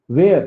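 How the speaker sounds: "where" said as "वेयर", not "वर"; wrong pronunciation. Shown as a demonstration. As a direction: show the mistaken "where" as "वेयर". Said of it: "अगर हमने where बोल दिया".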